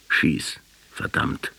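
hushed, breathy dying plea; melodramatic last words. Retold or imitated. Writer acts out the last words in a hammed-up whisper. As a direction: whisper the dare like a dying hero. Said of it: "Das ist ein Melodram".

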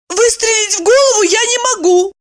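high plaintive lament; a touch of a plaintive sigh; complaining. A narrator's reading. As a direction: whine about it seriously. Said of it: "посетовала она".

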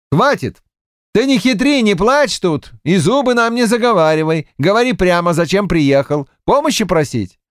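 high, firm cut-off; a touch of stern chairman; firm interruption. A narrator's reading. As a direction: stop his tricks. Davydov cuts him off.

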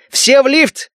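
high, urgent yell; urgent shout. A narrator's reading. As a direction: shout the order to run. Sever yells in danger.

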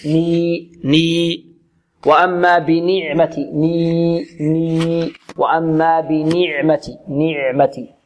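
slow نعمتي with ن as a pure, full "ni"; full kasra. Shown as a demonstration. Teacher drilling the saturated noon for students, full kasra. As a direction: draw out ني with a clear i. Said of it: "أشبع النون".

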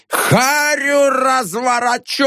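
high, slow raging yell; frenzied threat. A narrator's reading. Janitor threatens a beating in a frenzy. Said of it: "неистовствовал дворник".

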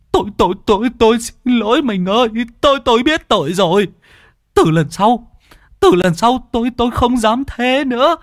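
high, stuttering begging husband; high, pleading stammer; stammering plea. A narrator's reading. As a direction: grovel to your wife, tripping on words. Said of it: "miệng ú ớ".

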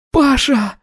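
high tearful burst of relief; joyful cry. A narrator's reading. Polina sees Pasha alive, joyful tears. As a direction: cry his name in joy. She throws herself on him.

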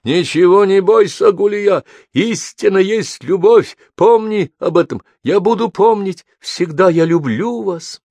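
high, loud impassioned calls, slow in places; breaking into a shout. Acted. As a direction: shout your love across the mountains. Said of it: "прорвался криком, отразился эхом".

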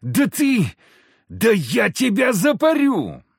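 hammed-up drunk lout shouting; drunken yell. A narrator's reading. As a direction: bellow the threat from the mud. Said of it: "заорал хмырь".

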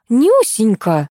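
slow, drawn-out affectionate exclamation; light up as you remember her; exclaiming fondly. Acted. Teacher recognising the little girl, slow fond exclamation. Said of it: "и воскликнула".

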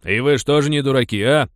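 loud jeering call; mocking shout. Men shout at the silent warriors, loud jeer. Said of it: "крикнули они воинам".

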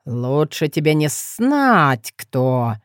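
slow, amused low remark; smirking. Acted. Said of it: "усмехнулся тот".

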